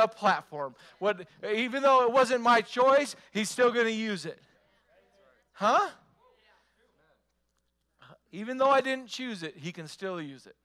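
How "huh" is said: loud high huh to the crowd; preacher's huh. Real, not acted. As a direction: call for a response. Calling the congregation.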